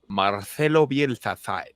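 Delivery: slow, deep pharaoh voice; a hint of a booming pharaoh. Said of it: "You sound like the Pharaoh from Night at the Museum".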